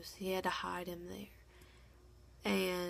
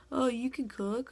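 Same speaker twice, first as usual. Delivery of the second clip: higher, louder imitated surprise; retold surprise; 4 semitones higher, 7 dB louder than usual. Guests tasting the eggs she cooked, imitated pleasant surprise. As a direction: pitch it up, mimicking impressed guests. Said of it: "They're like".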